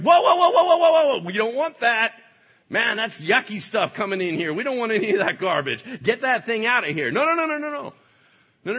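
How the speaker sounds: very high, loud "whoa"s; frantic mock alarm; alarmed laughing shout. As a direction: stop it right now. Holy Spirit stops poison.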